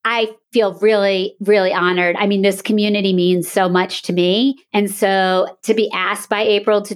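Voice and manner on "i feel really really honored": smiling voice. Real, not acted. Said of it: "and I'm smiling".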